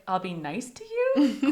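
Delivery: "I'll be nice to you" lifted into a question on YOU; questioning tune. Retold or imitated. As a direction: make "I'll be nice to you" sound like an unsure offer, ending upward. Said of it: "Question mark".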